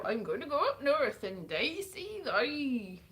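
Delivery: slow, muddled mock Northern English accent; botched Northern accent. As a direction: fake a Northern accent and lose it. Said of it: "I don't know what accent that was".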